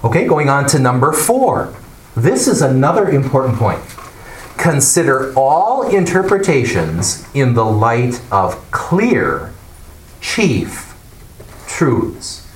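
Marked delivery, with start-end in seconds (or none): 4.6-12.5 slow, with "clear" and "chief" each set apart; stress on clear and chief. Shown as a demonstration. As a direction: pause before "chief" and before "truths", landing on each. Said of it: "I want to emphasize the words clear".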